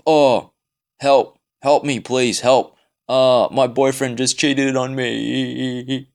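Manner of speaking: a hammed-up whiny plea for help, drawn out; mock the friend's desperate text; mock pleading. Mocking his ex-friend's text about being cheated on, whiny mock plea. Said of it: "the last text I got from him was".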